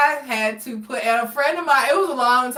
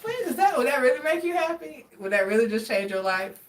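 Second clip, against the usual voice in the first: mock disbelief; 3 semitones higher, 4 dB quieter than usual. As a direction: scoff in fake amazement. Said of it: "I was like".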